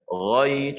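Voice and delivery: slow "Ghai", unrounded, tongue root only; ghain sederhana. Shown as a demonstration. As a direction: hold "Ghai" without thickening it. (sebutan "Ghai" perlahan, tidak terlalu tebal)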